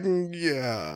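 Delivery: drawn-out, hesitant assent; imitating half-hearted backing; reluctant agreement. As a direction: go along with it unwillingly.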